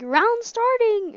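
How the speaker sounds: high, loud, slow mock announcer; mocking robotic bot voice. Teasing a friend who sounds like a bot, mock robot voice. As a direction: imitate the bot friend's stiff call. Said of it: "He's like".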